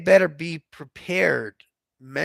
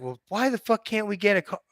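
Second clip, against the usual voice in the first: higher, fast exasperated demand; losing it; 6 semitones higher, faster than usual. Retold or imitated. Customer losing it at the rental car clerk, high and fast. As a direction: fire it off, pitched up in frustration. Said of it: "And I'm losing it".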